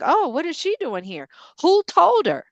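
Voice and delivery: a gossiping relative caught off guard; mock surprise. Relatives gossiping at the funeral about her, mock surprised.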